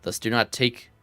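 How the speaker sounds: a hint of an old-fashioned Shakespearean sage, measured and solemn; lightly voiced archaic scholar. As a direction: read it like a courtly old scholar, only lightly put on. Reads the archaic NPC's lines.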